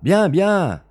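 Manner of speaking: high, loud cry of surrender; panicked cry. Acted. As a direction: give in in a panic. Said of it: "cria Bellingham".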